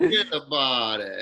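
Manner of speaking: slow New York "Forget about it" through a laugh; laughing demo. Shown as a demonstration. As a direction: repeat the catchphrase, laughing. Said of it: "How do you say it?".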